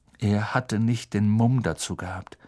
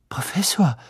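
whisper; 6 semitones higher than usual. A narrator's reading. Harry setzt erschrocken an.

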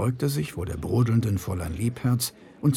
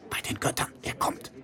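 softer breathy murmur; 6 dB quieter than usual. A narrator's reading. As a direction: murmur it so only he hears. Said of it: "Fräulein Liebherz murmelte".

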